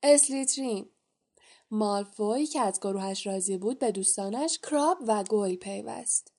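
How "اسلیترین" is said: higher, louder shout in a changed voice; Sorting Hat proclaims the house. A narrator's reading. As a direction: announce the house with a ringing call. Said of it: "فریاد زد".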